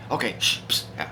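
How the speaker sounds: whispered shushing; hushed whisper. Acted. God hushing Christ on the side, whispered. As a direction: hush the others so Satan can't hear. Hushing so Satan won't hear.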